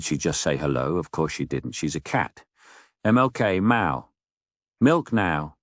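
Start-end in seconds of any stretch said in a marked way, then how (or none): 3.0-4.1 lightly meowed, higher demand; demanding cat voice. Acted. Cat orders milk from owner, lightly meowed demand. 4.8-5.6 slightly raised, demanding cat voice; talking cat. Acted. Cat orders milk from owner, hint of cat voice. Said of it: "She didn't just say milk now".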